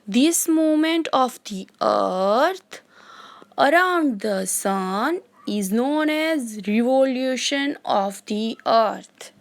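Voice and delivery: very slow, spaced-out reading of a definition; dictation. Shown as a demonstration. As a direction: dictate each phrase so the class can write it. Teacher dictating English definition. (बहुत धीमे, रुक-रुक कर लिखवाना)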